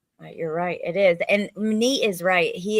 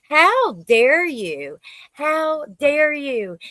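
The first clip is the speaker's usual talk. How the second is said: slow, stunned outrage, second one higher; outraged; 6 semitones higher, 4 dB louder, much slower than usual. Real, not acted. Host reacting to the killer's courtroom statement, slow outraged disbelief. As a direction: spit out each word in disbelief.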